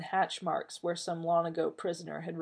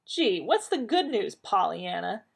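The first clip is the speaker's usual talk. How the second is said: sarcastic; 3 semitones higher than usual. Acted. Rodney mocking John sarcastically.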